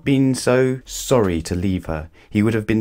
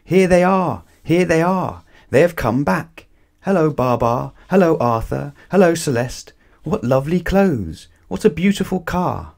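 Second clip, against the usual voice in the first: high, loud, joyful cries of welcome; excited shouting; 8 semitones higher, 4 dB louder than usual. A narrator's reading. Elephants greeting Baa Baa's return, shouting high and loud. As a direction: call out with delight to the returning friends. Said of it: "running and shouting".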